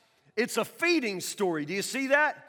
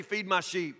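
awkward reply; 5 semitones lower, 3 dB quieter than usual. Pretend. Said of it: "it's usually just kinda awkward if you say".

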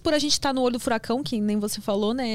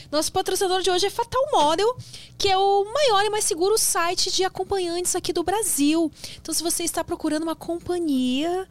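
upbeat sponsor pitch, a bit higher; ad read; 3 semitones higher than usual. Acted. Host reading the sponsor message to viewers, upbeat ad voice. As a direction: sell the sponsor to the audience.

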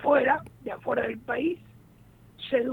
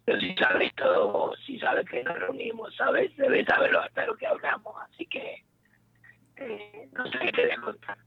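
breaking-up phone call; glitchy robotic call audio; choppy phone line. Real, not acted. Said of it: "te escucho entrecortado".

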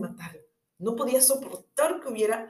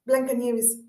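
Snow White voice; 4 semitones higher, slower than usual. A narrator's reading. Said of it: "dijo Blancanieves".

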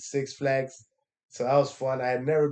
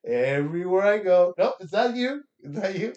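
mock polite reassurance. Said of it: "I just said".

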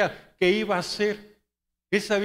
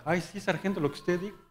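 softer, mock-submissive reply; mock obedience; 6 dB quieter than usual. General answering his sergeant, mock meek. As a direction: imitate giving in meekly, tongue in cheek.

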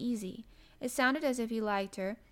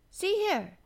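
sudden higher, louder call for attention; 10 semitones higher, 5 dB louder than usual. A narrator's reading. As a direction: break in abruptly with a new idea. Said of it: "he said suddenly".

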